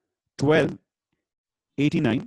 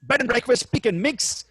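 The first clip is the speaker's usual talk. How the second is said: bingo caller=1. Acted. Bingo number calls.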